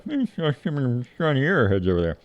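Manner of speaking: casual farmer musing between bites, "airheads" for arrowheads; farmer Lyle's drawl. Retold or imitated. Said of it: "That's the way he talks".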